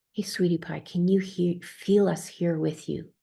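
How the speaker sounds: gentle coaxing whisper to a frightened client. Retold or imitated.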